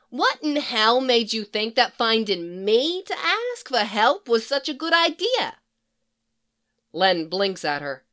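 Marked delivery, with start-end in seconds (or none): 0.1-5.6 brassy Harley Quinn voice. Acted. Harley quizzing the psychiatrist who found her, higher and brassy. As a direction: play her cheeky and impatient.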